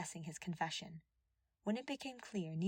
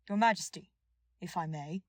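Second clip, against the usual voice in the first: thundered; 8 dB louder than usual. A narrator's reading. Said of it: "Dudu's usually quiet voice thundered".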